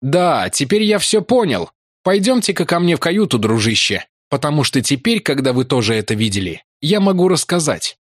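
спокойная твёрдость вместо ужаса; cold certainty. Acted. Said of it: "В его голосе появились новые интонации". (холодная уверенность в голосе)

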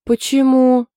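high, loud surprised "why?"; genuinely taken aback. A narrator's reading. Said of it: "удивлённо спросила Саша".

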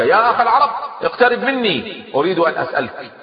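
calling out across the field. A narrator's reading. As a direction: hail him from afar with a high voice. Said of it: "وبدأ ينادي".

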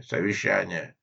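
gruff. Acted. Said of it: "говорил он грубым голосом".

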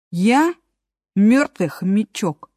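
slow and welcoming; friendly. Acted. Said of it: "приветливо повторил мёртвый хомячок". (приветливо)

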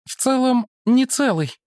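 high woman's voice; woman character. Acted. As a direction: Mara greets the monk, pitched high. (Мара приветствует монаха высоким женским голосом)

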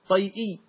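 "طيئي" with a short "tay" before "-i"; regular form. Shown as a demonstration. Teacher giving students the expected tribal adjective, "طيئي" as tay-i. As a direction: say "طيئي" as tay-i, glide then hamza. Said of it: "كان القياس أن يقولوا فيه".

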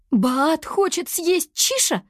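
high, slow scared question; slow high fearful question; frightened. A narrator's reading. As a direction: dread that her pet will be eaten. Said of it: "перепугалась Туа".

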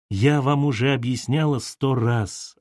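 slow irritated snap; snapping. Acted. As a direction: snap back, fed up. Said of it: "огрызнулась Ольга". (раздражённо огрызаясь)

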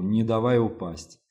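usual speaking voice

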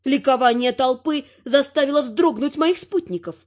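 ordinary delivery

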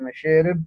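مشارب with the alif tilted toward e; imala. Shown as a demonstration. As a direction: say مشارب as "masherib". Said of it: "بالإمالة".

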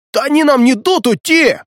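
very high, loud panicked cry; hysterical panic. A narrator's reading. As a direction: lose control as you scream. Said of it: "вошёл в эмоциональный штопор". (истерика, очень высоко и громко)

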